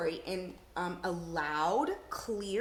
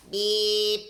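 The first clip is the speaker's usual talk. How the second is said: loud, flat robot beep; 10 dB louder than usual. Shown as a demonstration. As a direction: beep like a machine. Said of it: "say it in a voice to match who's talking".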